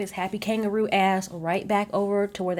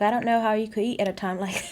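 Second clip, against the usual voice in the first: put-on a quick, half-hearted stab at an Australian accent; fast mock Australian, given up mid-line; attempted Australian accent; 4 semitones higher, 3 dB louder, faster than usual. Recapping the reality show, voicing Michael in a failed Australian accent. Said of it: "I cannot do an Australian accent".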